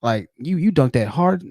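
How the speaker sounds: mock bro excitement; hype bro. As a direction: hype up a friend's dunk. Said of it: "you're like".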